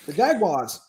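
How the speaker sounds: English-style "Jaguars"; English accent. Acted. Panelist practices the team name, in a mock English accent. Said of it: "do English accent when talking about the Jaguars".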